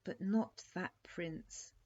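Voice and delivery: weeping. Acted. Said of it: "wept the poor little princess".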